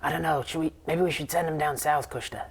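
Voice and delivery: lightly voiced, unsure trickster; a hint of a dithering prankster; hesitant satyr. Satyr answering the pixie, lightly voiced and unsure. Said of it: "And the other one says".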